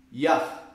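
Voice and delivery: Yah said as one short syllable, ya with a breathy h, falling and firm; name spoken clearly. Shown as a demonstration. Preacher revealing the first syllable, firm and clear. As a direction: present Yah as a single clear syllable after a pause. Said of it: "A primeira sílaba do tetragrama é".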